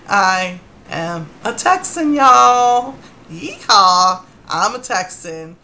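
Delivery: loud, slow, proud Texan cheer with a yeehaw; slow, loud victory cry; triumphant celebration. Real, not acted. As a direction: crow it out like a proud new Texan.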